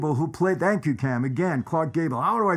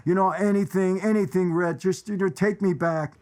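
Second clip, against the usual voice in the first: higher-pitched retold begging, no real tears; mock pleading; 5 semitones higher than usual. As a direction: lightly act out a desperate plea. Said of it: "she's pleading and she's crying".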